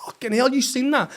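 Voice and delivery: high-pitched outraged question; incredulous protest. Retold or imitated. Coach to linesman over unflagged kick, high incredulous protest. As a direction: raise the pitch in disbelief.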